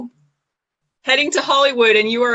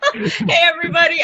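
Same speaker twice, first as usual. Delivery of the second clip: excited greeting; 6 semitones higher than usual. Real, not acted. Greeting viewers at stream start.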